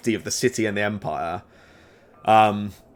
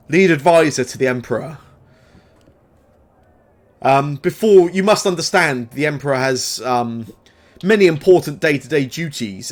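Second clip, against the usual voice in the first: falsely welcoming advisor. Acted. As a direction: greet them with fake warmth, a little too bright. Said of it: "very welcoming, somewhat disingenuous".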